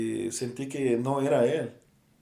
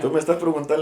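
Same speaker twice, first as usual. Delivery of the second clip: laughing; 3 semitones higher, 6 dB louder, faster than usual. Real, not acted. Laughing while telling the story.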